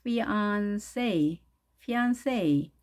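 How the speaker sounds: fiancé as fee-ahn-SAY, falling at the end; stress on last syllable. Shown as a demonstration. Teacher repeats for learners, careful fiancé ending in SAY. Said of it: "이렇게 발음해야 되네요".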